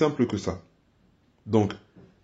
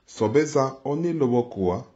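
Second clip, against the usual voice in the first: Sobeza one lobo koa, slowed and careful; said slowly; slower than usual. Shown as a demonstration. Teacher says the phrase slowly before speeding up. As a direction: take it slowly, syllable by syllable. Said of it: "vous le dites lentement".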